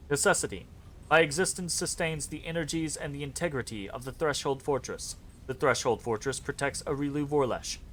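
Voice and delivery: lightly robotic, even monotone reading; half-hearted robot, words flat and measured; cheap robot voice. Acted. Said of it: "cheapskate robot voice".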